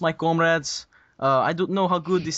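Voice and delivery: playful Russian accent. Shown as a demonstration. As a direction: greet your comrades like a joking Russian. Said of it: "Goodness, you are good at that".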